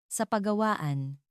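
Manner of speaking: a touch of nerves, drawn out slowly; slightly trembling voice. A narrator's reading. Narrator nervously invites Paolo to the workshop, slightly trembling. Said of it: "Medyo nanginginig ang boses ko".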